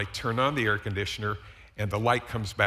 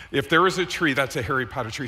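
emphatic joking retort; 3 semitones higher, 7 dB louder than usual. Retold or imitated.

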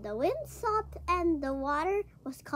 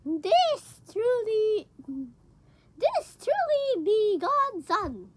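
awed; 3 semitones higher, 3 dB louder, much slower than usual. Acted. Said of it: "said to each other".

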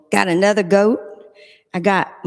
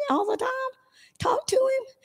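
whispered question; 6 dB quieter than usual. Acted. Coaxing children with question.

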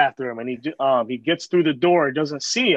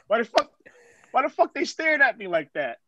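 indignant, higher-pitched mimic of a paranoid friend; retold agitated grilling; 4 semitones higher than usual. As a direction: act out his edgy complaint, laughing a little. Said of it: "fucking grilling everybody".

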